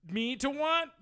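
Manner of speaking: mock domineering. Teasing dominant role play.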